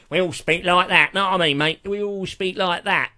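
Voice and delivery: mock British street accent, pushed hard; hammed-up British accent. Shown as a demonstration. Showing American listener how Brits speak, hammed-up British accent. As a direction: exaggerate a matey British accent. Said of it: "whereas over here, of course".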